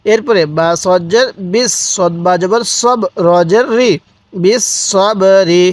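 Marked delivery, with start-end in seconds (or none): 4.3-5.6 slow, drawn-out বিস সব রি; model recitation. Shown as a demonstration. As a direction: hold each syllable of বিস সব রি, separately. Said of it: "এরকমভাবে পড়ব".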